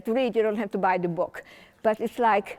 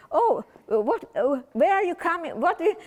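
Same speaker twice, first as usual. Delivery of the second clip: curious questioner; 7 semitones higher than usual. Retold or imitated. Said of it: "people ask me".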